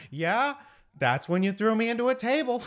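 high, laughing character quote; laughing Sherman voice. Retold or imitated. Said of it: "Sherman's response to be like".

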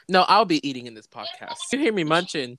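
talking through a mouthful of tacos; words around a crunchy bite; chewing while talking. Real, not acted. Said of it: "can you actually hear me eating".

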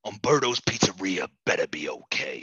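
worried whisper; hushed and anxious; Joe Biden whisper. Acted.

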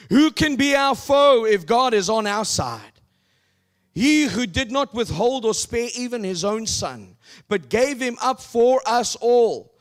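loud, high proclaimed scripture; preaching. Acted. Preacher reading Romans eight to the congregation, loud. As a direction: thunder out the verses.

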